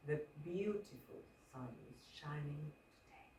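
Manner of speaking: quiet, low, almost breathed "The beautiful sun is shining today"; emphasis by softness; very soft line. Shown as a demonstration. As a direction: drop the whole line to a hush. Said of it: "That could also work".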